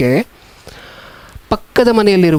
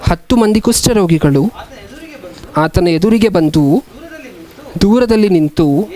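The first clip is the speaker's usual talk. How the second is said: slow, measured Bible reading; scripture reading; slower than usual. A narrator's reading. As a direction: read it out phrase by phrase, with long pauses. Reads scripture aloud. (ನಿಧಾನವಾದ Bible ವಾಚನ)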